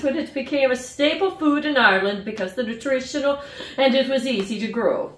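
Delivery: a light, self-mocking Irish accent reading the card; bad Irish accent. Vlogger reading the snack postcard to viewers, hammed-up bad Irish accent. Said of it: "That's my attempt at a shitty Irish accent".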